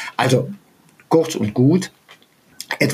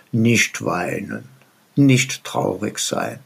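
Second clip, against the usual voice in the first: soothing; 3 semitones lower than usual. Retold or imitated. Daughter consoling crying mother.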